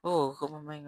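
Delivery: loud angry jeer; bully shouting at the new girl, loud; retold anger. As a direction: snap it out loudly. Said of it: "dia marah-marah aku".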